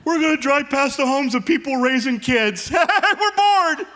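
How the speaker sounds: lightly voiced bored old couple; hint of bored retirees. Voicing bored empty nesters.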